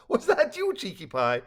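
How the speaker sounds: high-pitched amused question dropping at the name; laughing. A narrator's reading. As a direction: ask it through a laugh, starting high and loud. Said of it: "Gerald said with a laugh".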